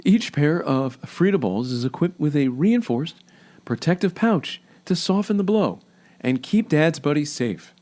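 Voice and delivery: a lightly put-on cheesy commercial announcer. Host rereads the product copy, faintly hammy announcer voice. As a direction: read it like hammed-up ad copy, only a hint of it. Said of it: "like your cheesy announcer voice".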